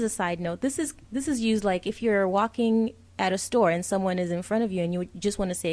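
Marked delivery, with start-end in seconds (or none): none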